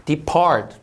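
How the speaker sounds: "depart" stressed on PART; second-syllable stress. Shown as a demonstration. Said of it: "이음절 강세". ("depart"의 둘째 음절에 강세)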